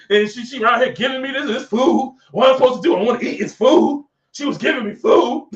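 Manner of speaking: mock excuse-making. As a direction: stammer out a mock defensive excuse. Acts out Adam blaming the woman.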